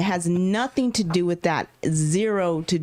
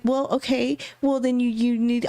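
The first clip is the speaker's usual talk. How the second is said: flustered rush; 6 semitones higher than usual. Retold or imitated. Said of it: "I'm like".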